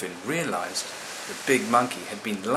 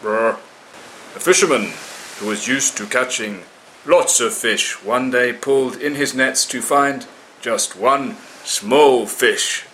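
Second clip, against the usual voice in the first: slow, louder tale-telling voice; storytelling monkey; 2 semitones higher, 6 dB louder, slower than usual. A narrator's reading. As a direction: begin the tale grandly. Monkey begins telling his tale.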